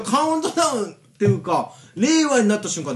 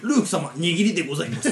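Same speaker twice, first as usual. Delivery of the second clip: polite droid butler; 5 semitones lower, 4 dB quieter than usual. Acted. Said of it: "ございます調ですね".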